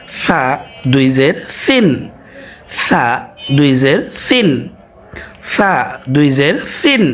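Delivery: slow, deliberate সিন with tongue tip at teeth; slow recitation. Shown as a demonstration. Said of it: "সায়ের উচ্চারণ জিহ্বার আগা এবং দাঁতের আগা থেকে হয়". (ধীরে দাঁতের আগায় সিন)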